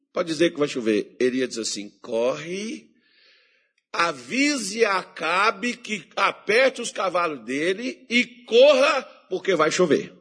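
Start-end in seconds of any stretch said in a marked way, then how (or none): 2.0-10.1 slow, weighty prophetic order; Elias's urgent command. Retold or imitated. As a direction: deliver it like a prophet sure of rain. Elias commands Ahab to hurry.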